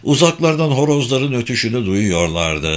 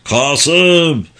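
loud, higher calling out; piercing shout; 7 semitones higher, 5 dB louder than usual. A narrator's reading. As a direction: shout the name as if into the distance. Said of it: "havayı göktaşı gibi yırtan bir sesle". (yüksek, tiz sesle bağırarak seslenme)

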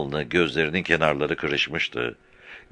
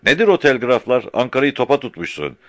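raised scolding voice, higher; heated rebuke; angry scolding; 7 semitones higher, 4 dB louder than usual. A narrator's reading. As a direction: berate Murtaza. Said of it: "dedi öfkeyle".

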